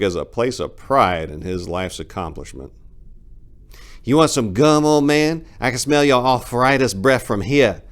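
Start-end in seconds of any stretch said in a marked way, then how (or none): 4.0-7.8 high, loud smart-aleck jab; witty retort. Acted. Four-way retorting at the old man, cocky high jab. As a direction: fire it back like a cocky punk. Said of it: "thought he wittily retorted".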